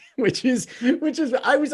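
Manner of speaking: high-pitched laughing through the words.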